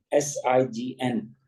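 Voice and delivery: letter by letter, slowly; spelling out slowly. Shown as a demonstration. Teacher spelling the word to students, slowly. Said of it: "जैसे".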